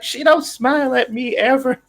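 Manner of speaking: very high, squeaky whiny voice; high squeaky pet voice. Retold or imitated. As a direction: voice the jealous pet. Voicing dog jealous of baby.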